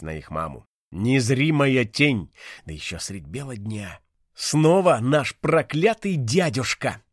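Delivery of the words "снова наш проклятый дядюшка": angry shout. Acted. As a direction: curse the uncle out loud. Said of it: "закричал Вико".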